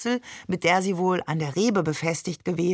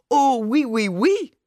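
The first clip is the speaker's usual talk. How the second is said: high, louder, hammed-up regal French; mock French queen; 5 semitones higher, 4 dB louder, slower than usual. A narrator's reading. Father waves a towel like royalty, mock French queen. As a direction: trill the French like a queen waving. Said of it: "wie eine Königin".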